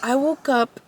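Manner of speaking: scary voice. Shown as a demonstration. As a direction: hush it like a campfire tale. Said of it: "say it in a scary voice".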